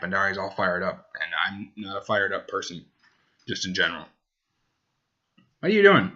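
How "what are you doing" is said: high, sing-song question to a pet; talking to the dog. Real, not acted. Asking the dog Hank.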